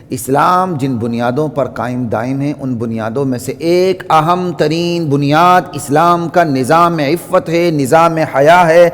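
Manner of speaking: very slow, weighty sermon cadence; slow preaching. Acted. Preacher listing Islam's systems of modesty, very slow and emphatic. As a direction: hammer each system of modesty home, slowly.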